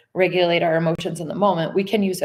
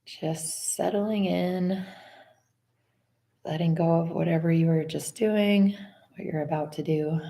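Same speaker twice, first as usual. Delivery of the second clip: unhurried, softer body-scan voice; guided meditation; 4 dB quieter than usual. Acted. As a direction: ease them gently into letting go.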